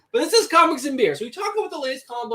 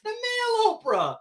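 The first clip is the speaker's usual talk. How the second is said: laughing; 11 semitones higher than usual. Real, not acted. Laughing echo of the phrase.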